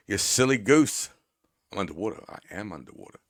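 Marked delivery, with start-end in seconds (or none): 0.1-1.1 louder teasing. Acted. Teasing a chatter, repeated.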